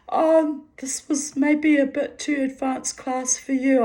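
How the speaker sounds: put-on high, lightly German-accented teacher; imitated German instructor. German instructor to struggling beginner, imitated German accent. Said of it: "at the end he said".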